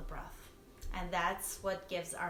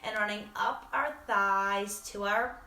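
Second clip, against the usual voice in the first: guided meditation; 2 semitones higher than usual. Real, not acted. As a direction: guide them through inhale and release, leaving pauses. Leads a body scan.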